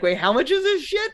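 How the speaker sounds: excited high squeal of disbelief; high giddy excitement. Retold or imitated. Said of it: "me giddy in GameStop being like".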